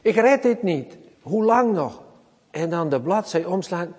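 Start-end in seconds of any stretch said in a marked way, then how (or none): 0.0-2.0 high anguished pleading; preacher voicing David near death; desperate plea. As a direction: cry out at the end of your rope. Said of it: "hoe zou die psalm".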